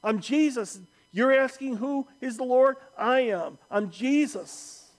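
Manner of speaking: emphatic, authoritative revelation; Jesus declaring himself. Acted. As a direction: answer with ringing certainty. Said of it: "acknowledging to Paul".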